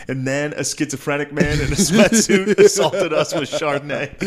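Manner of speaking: mock reality-TV confessional. Cohost parodying a reality show confession, laughing mock outrage. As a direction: narrate the drama while cracking up. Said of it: "they show one of their confessions".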